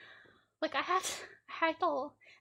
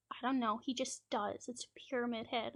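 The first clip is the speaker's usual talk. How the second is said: creepy whisper; 3 semitones lower, 6 dB quieter than usual. Retold or imitated. Kid's creepy quiet answer.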